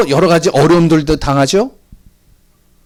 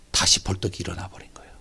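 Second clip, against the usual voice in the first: whisper; 10 semitones lower, 12 dB quieter than usual. Acted. Dramatic climax of resurrection.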